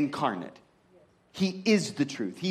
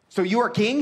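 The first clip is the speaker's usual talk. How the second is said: "So you are king" pitched up as a question; "So you are king" in a raised, querying tune; asking; 4 semitones higher, 4 dB louder than usual. Retold or imitated. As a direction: lift "So you are king" higher, as if checking. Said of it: "he's asking".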